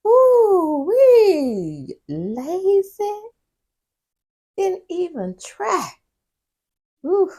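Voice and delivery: high, loud scornful verdict; disgusted judging. Real, not acted. Host judging the man's lazy answer, scornful and high. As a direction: scoff at his effort. Judging his weak reply.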